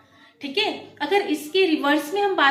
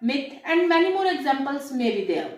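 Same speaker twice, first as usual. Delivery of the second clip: slow example; much slower than usual. Shown as a demonstration. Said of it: "जैसे अभी मैंने example दिया".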